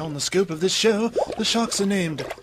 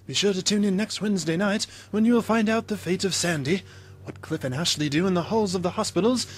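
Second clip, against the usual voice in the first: soap announcer; 3 semitones higher than usual. Acted. Soap opera announcer teaser.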